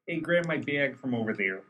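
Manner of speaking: lightly put-on Chicago accent. Podcaster imitating a Chicago local, light Chicago accent. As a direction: toss it off in a mild Chicago accent. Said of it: "Chicago accents".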